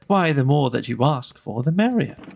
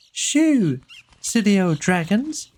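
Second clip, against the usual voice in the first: shouted; 5 semitones higher, slower than usual. A narrator's reading. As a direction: shoo the dragons away with a big call. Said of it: "I shouted".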